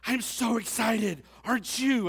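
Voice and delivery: put-on high, loud, slow gushing girl voice. Pastor imitating an excited girl at his reunion, high and loud. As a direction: squeal it like an overexcited classmate. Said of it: "she goes".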